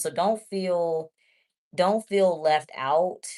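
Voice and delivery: slow reassurance. Real, not acted.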